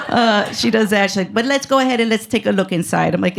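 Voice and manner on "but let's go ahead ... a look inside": put-on lightly foreign-accented little doctor; cute ESL-robot accent. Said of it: "sounded like a cute little robot took E S L classes".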